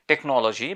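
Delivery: "টেকনোলজি" said the everyday Bengali way; Bangla-style pronunciation. Shown as a demonstration. Teacher shows the local habit, Bangla-style pronunciation. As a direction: say "টেকনোলজি" with a round o in the middle. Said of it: "আমরা এটাকে বলে থাকি".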